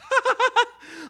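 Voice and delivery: high cracking laugh; burst of laughter. Real, not acted. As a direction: laugh out loud at yourself. Laughing before the Shaggy voice.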